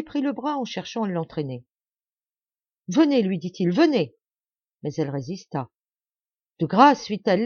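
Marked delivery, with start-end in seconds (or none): 2.9-3.2 high, loud pleading call; urgent plea. A narrator's reading. Urging her to flee. 3.7-4.1 high, loud pleading call; urgent plea. A narrator's reading. Urging her to flee. 6.6-7.1 loud, high pleading; begging. A narrator's reading. Begging to be left.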